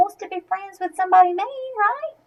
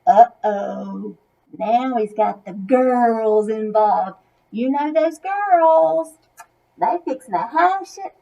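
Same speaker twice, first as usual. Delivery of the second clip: folksy aside; 4 semitones lower, slower than usual. Acted.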